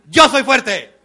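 loud, laughing demo of "Yo soy fuerte"; strong shout. Shown as a demonstration. Speaker shows the crowd how to shout the phrase, laughing. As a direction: shout it out with force, half laughing. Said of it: "repitan mis movimientos y mi tono de voz".

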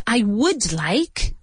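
slowly spelled out uncontracted; careful uncontracted "I would like"; slow, full form. Shown as a demonstration. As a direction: say each word slowly and fully. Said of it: "but contracted".

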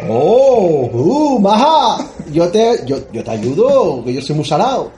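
slow drawn-out flirt, lightly voiced; mock flirty tough guy. Tough guy answering the woman, cheesy flirting. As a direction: play a cheesy smooth talker offering help.

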